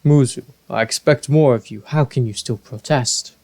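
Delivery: a hint of a stern Zora king. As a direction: scold the advisor firmly. King scolds Muzu.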